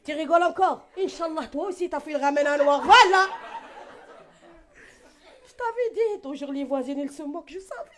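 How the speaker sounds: hammed-up outraged mother; angry mother's curse. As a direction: shout the curse at him. Mother shouting curse at laugher.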